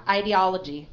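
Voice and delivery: IDEOLOGY with a long "eye" start, stress on OL; model pronunciation. Shown as a demonstration. Teacher models the word for a student, clear pronunciation of IDEOLOGY. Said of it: "If you say it wrong, I'll correct you".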